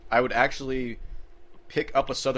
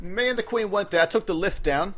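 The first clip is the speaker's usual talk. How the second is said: put-on British accent; 7 semitones higher than usual. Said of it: "British accent".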